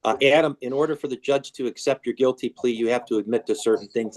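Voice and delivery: muffled by a hand; hand over mouth. Real, not acted. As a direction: talk through your hand. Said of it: "move your hand away from your mouth".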